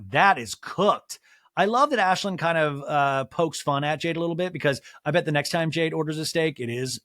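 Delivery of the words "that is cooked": slow, loud flat pronouncement; slow, weighty that is cooked; deadpan verdict. Retold or imitated. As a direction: deliver it like a final ruling. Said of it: "Ashlyn is like".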